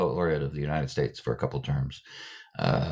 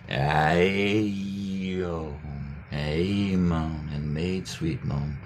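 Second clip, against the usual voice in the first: slow demo; much slower than usual. Shown as a demonstration. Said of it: "ascending ladder of sound".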